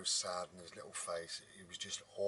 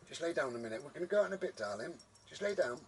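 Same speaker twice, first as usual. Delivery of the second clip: higher-pitched coaxing pet talk; coaxing the dog; 7 semitones higher, faster than usual. Real, not acted. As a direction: gently talk the dog into settling. Settling the dog.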